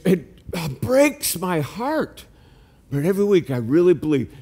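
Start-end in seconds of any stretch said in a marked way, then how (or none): 0.1-2.3 heartbroken. Real, not acted. Pastor's grief over lost sheep.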